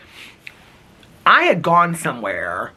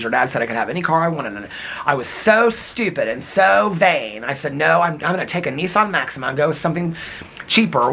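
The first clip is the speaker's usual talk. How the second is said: a hint of his rambling mother; imitating mom. Son imitating his mom telling about her car. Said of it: "This is how my mom would talk".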